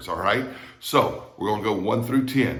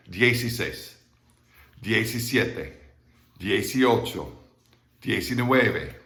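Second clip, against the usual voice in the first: quicker count. Shown as a demonstration. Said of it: "That was kinda fast".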